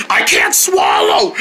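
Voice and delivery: choked, breathless whisper; strained whisper. Acted. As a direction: force it out while choking. Choking on spice.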